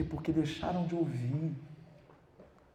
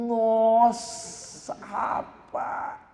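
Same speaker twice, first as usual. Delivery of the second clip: mock disdain; 10 semitones higher, 7 dB louder, much slower than usual. Mocking critic exclaims.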